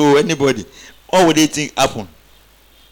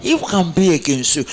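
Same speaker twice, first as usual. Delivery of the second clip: congregation repeat; 2 semitones higher than usual. Real, not acted. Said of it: "Say, neighbor".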